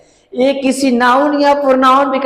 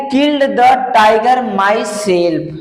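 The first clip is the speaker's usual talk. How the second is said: slow dictation; much slower than usual. Shown as a demonstration. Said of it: "समझ में आ रहा है कि नहीं?".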